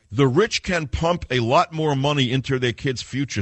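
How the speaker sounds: high-pitched mock quoting voice; mocking read-aloud. Host quotes economist he disdains, mocking. Reading out an article he scorns.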